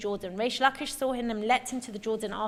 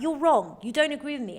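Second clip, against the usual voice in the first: sharp, dismissive rebuke, a little louder; cutting tone; 3 semitones higher, 6 dB louder than usual. Retold or imitated. Teacher voicing the rabbi rebuking his study partner, cutting. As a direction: put him down coldly. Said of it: "maybe even the way he says it".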